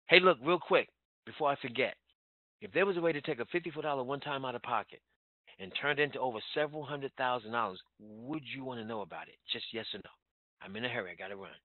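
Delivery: hurried pitch, in a rush; busy and pressed for time; urgent demo. Shown as a demonstration. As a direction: fire it off like you're leaving. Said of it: "That's how I sound".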